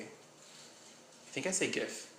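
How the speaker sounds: whispered to himself; unvoiced, unsure aside. Real, not acted. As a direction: mutter the answer under your breath. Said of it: "I don't know which one I say".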